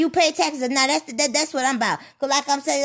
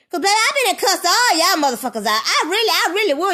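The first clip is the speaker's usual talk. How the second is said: louder, higher and laughing through the words; laughing threat; 5 semitones higher, 5 dB louder than usual. Real, not acted. Speaker laughing to viewers about cussing everyone out, amused and loud. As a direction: cackle while promising to cuss them out.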